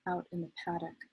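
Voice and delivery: measured poetry recital, pausing at line breaks; poem reading. Acted. Poet reads a letter-poem to an audience, measured recital. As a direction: let each image stand in its own phrase.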